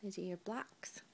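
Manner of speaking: put-on soft whisper to a toddler. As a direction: hush it gently to the little one. Hushed words to toddler.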